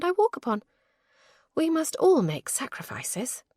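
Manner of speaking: dramatic sigh. A narrator's reading. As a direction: play the martyr in jest. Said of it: "She sighed dramatically".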